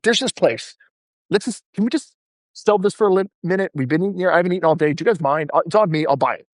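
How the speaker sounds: 1 casual lunch pitch. Retold or imitated. Acted invitation to lunch.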